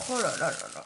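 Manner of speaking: low, loud oh là là; delighted. Real, not acted. Unboxing delight.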